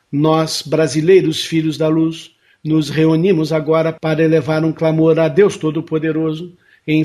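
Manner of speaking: steady, even prayer-like decree; formal invocation. Acted. Host leads listeners in an invocation for the Amazon, solemn and even. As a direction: recite the decree solemnly and evenly.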